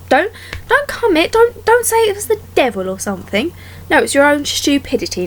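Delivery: high, heated telling-off; indignant scolding of a fairy tale villain; exasperated scolding. Acted. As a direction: rant at him like he's in the room.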